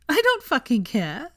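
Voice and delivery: chortling. Acted. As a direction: laugh it off with glee. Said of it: "she chortled".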